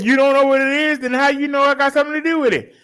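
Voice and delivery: mock outrage at the caller; fired up, calling out the scammer; indignant retort. Retelling his retort to scammer.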